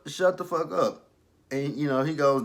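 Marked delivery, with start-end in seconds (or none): 0.1-1.1 louder, higher, slower "Shut the fuck up"; forceful quote. Retold or imitated. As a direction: bark it slowly. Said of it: "Tommy basically told her".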